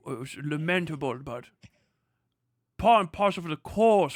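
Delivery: lightly put-on halting, pompous voice; mock solemn commentator. Mocking overseas reaction to the killing, mock solemn commentator. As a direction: imitate a hand-wringing orator, stumbling over words. Acts out a foreign commentator lamenting.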